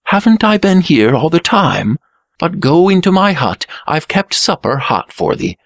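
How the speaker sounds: high-pitched welcoming chatter; cheerful. A narrator's reading. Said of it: "said the Blue Prince cheerfully".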